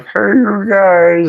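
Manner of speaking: very high, slow, drawn-out goofy call; Goonies impression. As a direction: do the Goonies kid's big goofy "hey". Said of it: "the Goonies, like".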